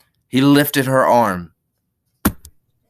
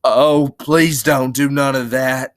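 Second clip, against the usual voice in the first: frightened plea, higher and louder; begging; 4 semitones higher, 5 dB louder, slower than usual. Acted. Lenny frightened by her screaming, begging. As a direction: plead as if near tears. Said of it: "he begged".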